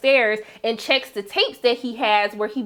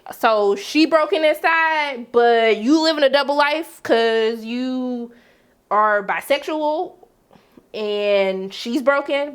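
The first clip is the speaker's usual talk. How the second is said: slow, pointed disbelief; skeptical challenge; slower than usual. Retold or imitated. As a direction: draw it out slowly, questioning the hypocrisy. Sarcastic challenge to Nate's hypocrisy.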